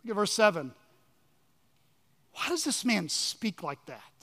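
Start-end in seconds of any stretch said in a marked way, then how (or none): 2.3-4.1 softer, muted aside of disbelief; under their breath. Acted. Scribes questioning Jesus among themselves, under their breath. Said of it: "they said it under their breath".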